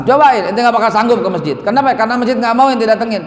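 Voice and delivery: high, emphatic taunting dare; retold challenge. Ustaz tells youth he will never manage it, challenging. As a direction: dare him, then push the reason home. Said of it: "aneh tantang".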